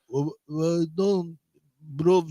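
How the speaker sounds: halting fake Russian mumble; bad Russian accent. Homeowner bluffing door visitors, bad Russian accent. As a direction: stumble through pretend Russian. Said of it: "come with a Russian accent".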